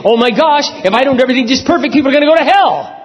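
frantic worrier, played for mock; mock panic. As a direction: sneer at the anxious perfectionist, fast. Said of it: "is to go and say".

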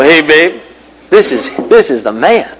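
lightly voiced big-time hood, laughing; a hint of tough-guy swagger, chuckling; cool guy voice. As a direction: play the smooth operator on the car phone. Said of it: "And I'm talking like this".

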